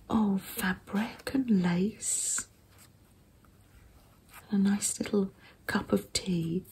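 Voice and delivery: ASMR whisper. Real, not acted. Showing a handmade zine to viewers in a gentle whisper. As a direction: hush every word for the listener. ASMR journal flip-through.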